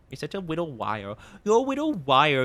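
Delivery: put-on teasing baby voice, l turned to w; baby talk. Streamer teases chat as a little liar in baby talk. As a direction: coo it like scolding a toddler.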